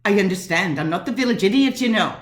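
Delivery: quick, firm retort; indignant insistence. Acted. Woman telling the attorney she's no village idiot, indignant. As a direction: repeat it firmly, building into indignation. Snaps back repeating herself.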